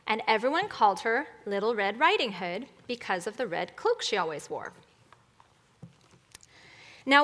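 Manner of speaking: storybook reading with lilting pitch; animated children's story narrator; fairy tale narration. Acted. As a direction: tell it like a bedtime story. Tells fairy tale to congregation.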